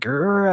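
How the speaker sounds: short mock "grr" yell; imitated growly yell. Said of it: "audibly yelling, like".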